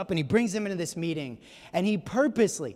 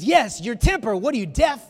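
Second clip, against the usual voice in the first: mock snapping taunt; 4 semitones higher, 5 dB louder than usual. Rickey needles Jackie's temper.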